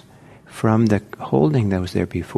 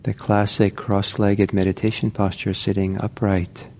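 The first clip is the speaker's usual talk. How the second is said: calm, unhurried meditation guidance; measured instructions with space to settle; guided meditation. Real, not acted. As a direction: gently guide them into posture, leaving long pauses. Guides listeners into meditation posture.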